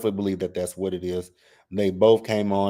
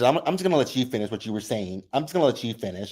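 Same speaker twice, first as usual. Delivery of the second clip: passive aggressive; faster than usual. Retold or imitated. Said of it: "Brit was being passive aggressive".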